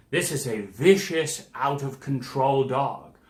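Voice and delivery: a hint of an aggrieved owner pleading his case; defensive dog owner. Imitating the dog owner defending himself to the parent, mildly aggrieved.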